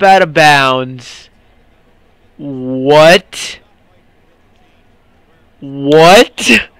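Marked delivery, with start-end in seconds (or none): 2.4-6.7 surprised. Real, not acted. Touchdown called back.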